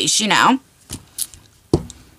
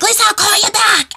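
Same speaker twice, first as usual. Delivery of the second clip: flustered hang-up; 10 semitones higher than usual. Retold or imitated. Hurrying off the phone.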